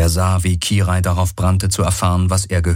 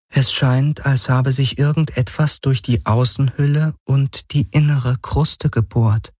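higher, cool and even, slowing at the end; a detached artificial voice, higher than the narrator; higher AI voice, measured and calm; the Helix, calm machine; 7 semitones higher than usual. Acted.

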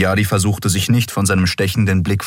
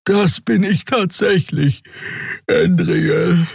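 tired Xea; 14 semitones higher, slower than usual. Acted. Xea müde, gähnend.

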